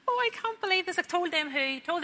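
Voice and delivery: high wailing cry of disbelief. Retold or imitated. Hearing on the street that David died, high wail. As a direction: let it break into a high wail. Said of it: "I started wailing in the middle".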